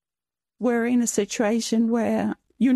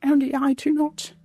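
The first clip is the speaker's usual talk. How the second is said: real emotion while reciting a cherished quote; choked up a little, slightly raised pitch; emotional. Real, not acted. Mother reciting a quote on longing for children, emotional. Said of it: "I still get emotional".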